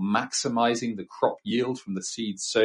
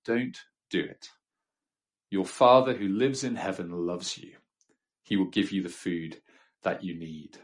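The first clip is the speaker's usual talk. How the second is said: gentle; 2 semitones lower than usual. Acted. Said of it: "But Jesus says gently".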